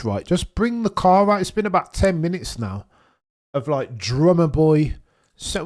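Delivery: loud, high impatient heckling. Real, not acted. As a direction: demand they hurry up. Impatient waiting for car reveal.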